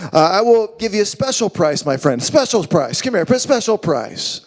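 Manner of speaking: smarmy hard-sell pitchman; home shopping host. Acted. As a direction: sell it like a TV infomercial. Luxury animals, special price pitch.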